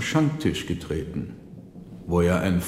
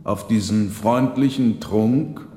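demanding father; 5 semitones higher, 5 dB louder than usual. Acted. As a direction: call out your son for refusing. Marchese questions son Lorenzo.

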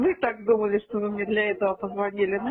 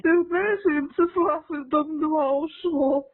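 slow, high, loud fake sobbing talk; crying on the phone; 5 semitones higher, 3 dB louder, much slower than usual. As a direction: wail it out in mock tears. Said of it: "я плачу".

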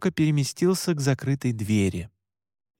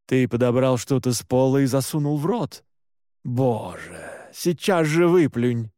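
scolding. A narrator's reading. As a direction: scold like an exasperated guardian, slowing for the command. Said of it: "голос продолжал меня распекать".

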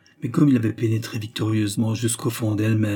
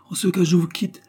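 breathy hushed whisper, voice set high; whispered leave-taking; 7 semitones higher than usual. A narrator's reading. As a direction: slip the words out under her breath. (chuchoté, en prenant congé)

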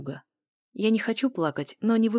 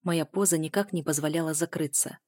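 ordinary delivery

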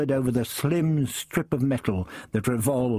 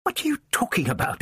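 demanding; 7 semitones higher, faster than usual. A narrator's reading. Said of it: "I demanded suddenly".

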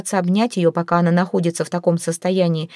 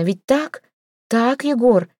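pleading question; 5 semitones higher, slower than usual. A narrator's reading.

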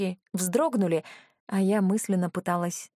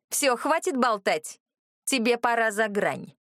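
уверенно; 4 semitones higher than usual. Acted. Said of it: "уверенно заявила брюнетка".

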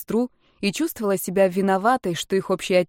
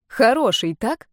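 pointed repeat; 4 semitones higher, slower than usual. A narrator's reading. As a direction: demand she confirm «Хороший, так?». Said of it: "повторила Юля".

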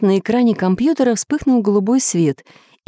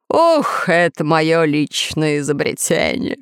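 good-natured smile; 2 semitones lower, slower than usual. Acted. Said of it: "добродушно улыбнулся повелитель".

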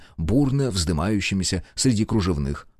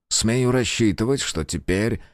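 nervous anger; 2 semitones higher, slower than usual. Acted. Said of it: "со злой нервозностью".

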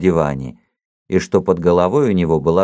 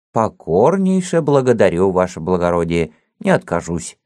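put-on old man voice; 2 semitones higher than usual. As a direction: talk like a toothless old servant.

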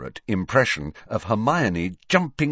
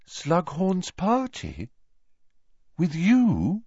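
put-on higher, slow, wondering girl voice; surprised Luna; 9 semitones higher, slower than usual. A narrator's reading. Luna hearing Harry's party invitation, slow airy surprise. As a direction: echo the invitation in airy disbelief.

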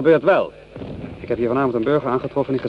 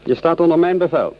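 sharp, raised officer's rebuke; stern rebuke; 6 semitones higher, 4 dB louder than usual. Acted. Lieutenant rebuking his corporal, sharp and raised. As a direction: put the corporal in his place.

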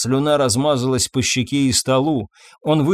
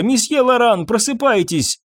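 calling out; 9 semitones higher than usual. A narrator's reading. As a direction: shout his name to wake him. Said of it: "кричала служанка".

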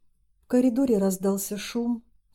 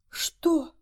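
sharp higher shout of shock; hoarse cry; 8 semitones higher than usual. Acted. Mother overhearing about her son, shocked higher shout. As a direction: cry it out in alarm. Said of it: "хриплым голосом закричала".

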